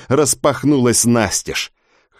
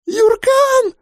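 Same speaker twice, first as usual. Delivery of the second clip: piercing, far higher scream of a name; desperate scream. Acted. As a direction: scream his name in terror. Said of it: "крик напарницы".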